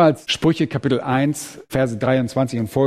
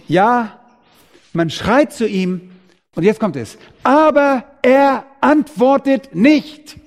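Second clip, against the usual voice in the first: rising preacher's cry; 7 semitones higher, 3 dB louder, slower than usual. Acted.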